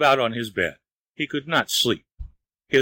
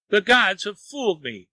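higher-pitched cry of outrage; pained yell; 7 semitones higher than usual. A narrator's reading. Wang rages at the gods for fooling him, yelling. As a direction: cry out high, cheated by the gods. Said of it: "he yelled".

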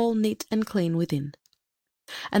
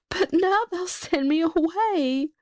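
put-on higher, slow and tearful girl's voice; sobbing maid; 10 semitones higher, slower than usual. A narrator's reading. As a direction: plead through tears, slowly. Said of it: "she sobbed".

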